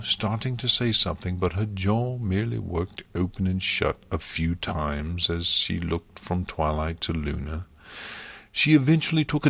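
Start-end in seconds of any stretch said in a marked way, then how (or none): none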